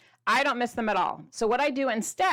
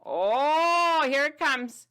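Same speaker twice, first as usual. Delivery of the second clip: higher, louder thrilled announcement; excited reveal; 6 semitones higher, 4 dB louder, much slower than usual. Acted. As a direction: build suspense for the big reveal.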